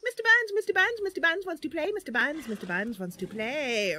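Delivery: lightly growled monster chant; growly Mister Buns. Shown as a demonstration. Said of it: "we will have him growl a lot".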